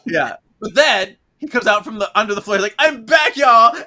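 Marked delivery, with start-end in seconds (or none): 2.8-3.8 high, loud showy ghost entrance; loud pirate ghost. Retold or imitated. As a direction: burst in like a hammy pirate. Ghost pops up from floor.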